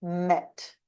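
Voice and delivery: holding nose closed; blocked nose. Shown as a demonstration. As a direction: speak with pinched nostrils. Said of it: "So let's try".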